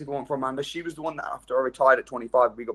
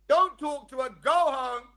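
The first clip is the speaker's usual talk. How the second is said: higher, nervous inner voice; timid inner voice; 9 semitones higher than usual. Retold or imitated. His fearful inner voice urging him home, high and nervous. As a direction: squeak out the cowardly inner voice. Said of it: "what do you think my little voice is saying?".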